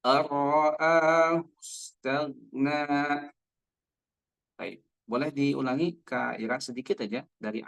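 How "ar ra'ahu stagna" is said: slow ar-ra'ahu stagna, gha closed and not bounced; gha without bounce. Shown as a demonstration. Teacher models verse seven for the student. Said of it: "tapi baca".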